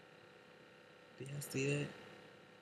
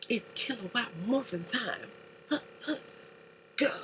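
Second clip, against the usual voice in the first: mock hero call; 11 semitones higher than usual. Imitating Power Rangers call.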